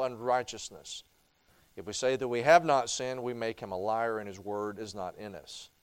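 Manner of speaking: measured, solemn Bible reading; scripture reading. Acted. Preacher reading First John to the congregation, solemn and measured. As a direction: read the passage with reverent weight.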